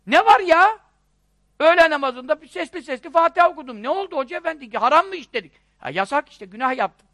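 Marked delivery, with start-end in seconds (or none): 0.1-5.5 higher-pitched, mock-offended worshipper; acted indignant protest. Worshipper challenging the hoca over reciting aloud, indignant protest.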